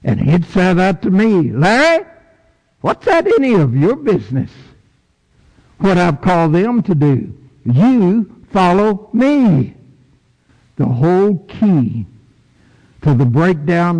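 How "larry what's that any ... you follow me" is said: Jesus correcting Larry, a hint higher; lightly voiced Lord. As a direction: gently put Larry in his place.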